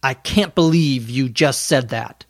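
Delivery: mildly angry disbelief, falling at the end. Shown as a demonstration. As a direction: say it as an annoyed reproach. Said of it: "That's my angry tone of voice".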